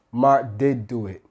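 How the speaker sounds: "did" given firm emphasis; stress on did. Shown as a demonstration. Teacher giving another emphasis example, stress on "did". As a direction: lean on "did" to confirm it happened. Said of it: "is that it is emphasizing".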